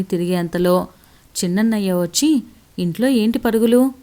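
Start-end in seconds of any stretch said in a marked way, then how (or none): 2.8-3.9 slightly raised voice, a mild scolding; a brother's firm, only slightly louder rebuke; a bit loud. Acted. Elder brother scolds sister for running indoors, mildly raised voice. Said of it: "అన్నాడు కొంచెం గట్టిగా".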